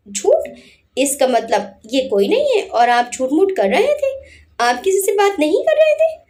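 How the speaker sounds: disbelieving, catching him out; surprised. Acted. Adhira asks Anurag in surprise, astonished. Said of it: "हैरानी से".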